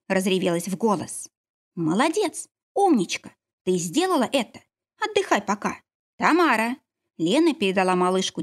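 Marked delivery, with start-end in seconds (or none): 1.7-2.5 Молодец lifted high, rising gladly; joyful praise. Acted. Midwife rejoices at the birth. 2.7-6.8 high, delighted praise; joyful midwife. Acted. Midwife rejoices after the birth.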